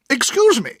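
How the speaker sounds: high, clipped interrupting aunt; sharp. A narrator's reading. Aunt cuts off Mister Murdstone, sharp. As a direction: cut him off sharply. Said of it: "said my aunt sharply".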